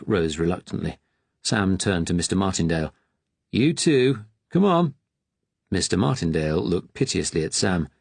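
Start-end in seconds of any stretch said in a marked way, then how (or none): 3.5-4.9 higher, louder barked order; brisk order. Acted. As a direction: chivvy him up sharply. Attendant ordering patient out.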